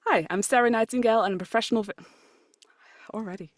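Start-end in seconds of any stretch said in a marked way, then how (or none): 0.1-1.9 upbeat podcast sign-off, quick and lifted; bright outro read. Shown as a demonstration. Guest reads podcast outro, bright and upbeat. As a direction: introduce yourself like a polished pro. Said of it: "I've written a script".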